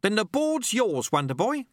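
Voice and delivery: brisk challenge in character; sweeper. Acted. Sweeper handing Wonderboy the board, in character.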